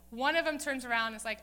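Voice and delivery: normal talking voice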